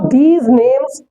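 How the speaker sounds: these names said very slowly. Shown as a demonstration. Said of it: "pronunciation".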